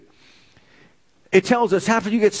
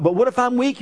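doubting objector; 5 semitones higher than usual. Retold or imitated. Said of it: "you say".

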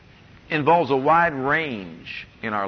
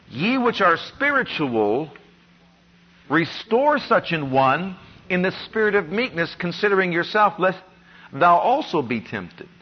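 slow scripture reading. Acted. Preacher reading the verse to the congregation, slow and solemn. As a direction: read the verse slowly and deliberately. Reads scripture aloud, slowly.

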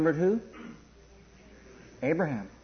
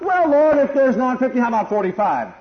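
put-on Abraham as a little kid, much higher and louder; childlike bargaining; 6 semitones higher, 5 dB louder than usual. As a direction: plead with the Lord like a child haggling. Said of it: "acting like a little kid before the Father God".

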